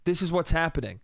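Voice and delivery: even, unforced placating voice, retold; calming him down. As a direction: talk a drunk down without pushing. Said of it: "I try and calm him down".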